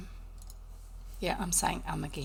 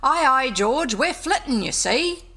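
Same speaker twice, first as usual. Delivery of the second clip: higher, louder impish call from inside the churn; shrill boggart voice; 5 semitones higher, 7 dB louder, slower than usual. Acted. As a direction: tease them from your hiding place. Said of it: "a shrill voice from a deep upright churn called out".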